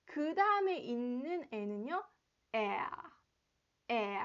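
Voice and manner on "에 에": tight, tense e vowel. Shown as a demonstration. Teacher demonstrating a tense e to students. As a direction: put tension into the e. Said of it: "확실히 긴장을 주는 게 포인트예요".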